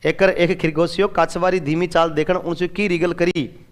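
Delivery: the same Rajasthani sentence read again, a little fuller. Shown as a demonstration. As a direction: repeat the Rajasthani line as a model. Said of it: "ये राजस्थानी है।". (राजस्थानी वाक्य दोबारा पढ़ना)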